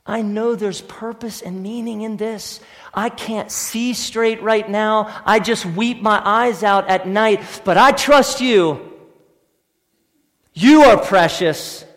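voicing a believer's prayer. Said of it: "you should hear and say".

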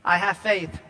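hammed-up churchgoer protesting too much; mock insistent protest. Churchgoer denies the preacher's charge, loud mock protest. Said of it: "dance all around what I just said".

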